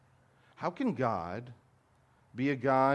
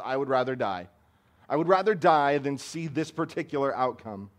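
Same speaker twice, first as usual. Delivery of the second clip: defiant self-pity; 3 semitones higher, 7 dB louder than usual. Retold or imitated. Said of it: "defiant stream of self-pity".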